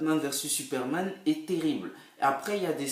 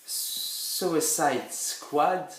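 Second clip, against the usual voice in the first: English accent; 3 semitones higher, much slower than usual. Shown as a demonstration. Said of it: "terrible mon accent anglais".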